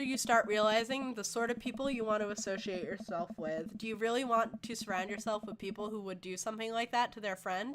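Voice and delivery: soft, measured fatherly advice; earnest reassuring dad. Acted. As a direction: counsel your hurt daughter gently. Voices the dad comforting his daughter.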